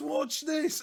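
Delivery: play-acted, very high, sudden, show-off shout. Retelling a bit from a video where someone shouts. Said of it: "he just shouts".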